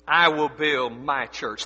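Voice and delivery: slow, low, deliberate weight on "my"; stress on MY. Shown as a demonstration. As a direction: lean on the word "my". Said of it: "Notice the emphasis on the pronoun my".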